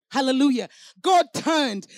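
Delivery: loud, ringing praise shout. Real, not acted. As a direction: call it out to the congregation.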